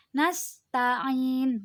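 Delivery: NASTA'IN with a briefly held final i; panjang dua harokat. Shown as a demonstration. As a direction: hold the end of "nasta'in" for two counts. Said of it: "satu alif atau dua harokat". (akhir NASTA'IN dipanjangkan dua harokat)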